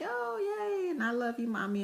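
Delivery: put-on squealing happy kid, high start; excited child. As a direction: burst out with childish delight. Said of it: "He's like".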